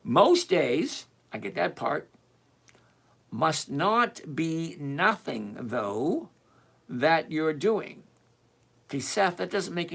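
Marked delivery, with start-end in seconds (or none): 0.0-1.1 deliberate rereading for sense; slower reading. Shown as a demonstration. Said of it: "read that again slower and see". 3.3-8.0 very slow, word-by-word reading; slower reading. Shown as a demonstration. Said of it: "read that again slower and see".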